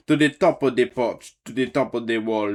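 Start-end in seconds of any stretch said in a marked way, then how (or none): 0.1-1.4 hollered command. Acted. Saint Nick hollering orders to his gators, loud. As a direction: TOP called out loud. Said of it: "he whistle and holler".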